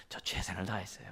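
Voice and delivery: quiet, sheepish son; mumbled excuse. Retold or imitated. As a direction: mutter the excuse softly. 아들의 변명을 흉내 냄. (작게 웅얼거리는 아들 흉내)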